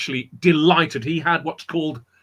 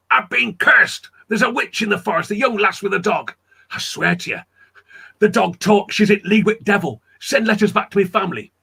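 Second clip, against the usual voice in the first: mock shout; 4 semitones higher than usual. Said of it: "he shouted".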